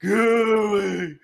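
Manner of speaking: slow, loud demonic growl; slow loud hoarse demon voice; hoarse, low voice. Acted. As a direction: menace them like a possessing spirit. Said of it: "very, very hoarse and low voice".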